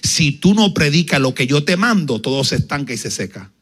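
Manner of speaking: low, slow, solemn command; the Lord instructing the preacher, solemn. Retold or imitated. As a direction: give the promise like a divine command. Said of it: "Me dijo".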